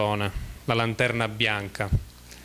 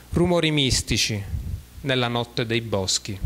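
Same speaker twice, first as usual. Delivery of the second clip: measured poetry reading with pauses between verses; poem recitation. Acted. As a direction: read each verse as its own phrase, letting it fall. Reads poems aloud in homage.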